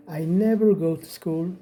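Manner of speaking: very slow, word by word, "never" leaned on; slow teacher read of "I never go to school with him"; slow model sentence. Shown as a demonstration. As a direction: spell it out slowly for the class. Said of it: "이렇게 되죠".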